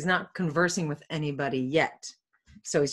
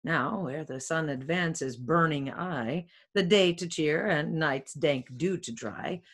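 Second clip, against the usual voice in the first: measured Shakespearean read-aloud; verse reading; 3 semitones lower, slower than usual. Acted. Friar Lawrence talking to himself at dawn, measured verse reading. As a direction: read the rhymed verse with deliberate phrasing.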